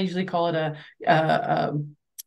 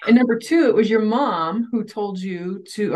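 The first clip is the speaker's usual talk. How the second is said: higher, eager interjection; excited; 3 semitones higher than usual. Real, not acted. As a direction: jump in with real excitement. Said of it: "I just got excited".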